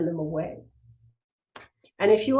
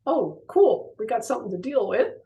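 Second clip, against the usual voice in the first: happy. Retold or imitated.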